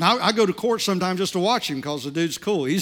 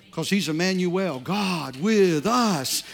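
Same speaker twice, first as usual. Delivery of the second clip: slow emphasis; much slower than usual. Acted.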